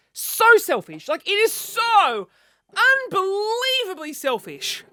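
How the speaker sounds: high and slow, half-laughing at herself; mock self-scolding. Real, not acted. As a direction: scold yourself in mock horror. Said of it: "self-mocking".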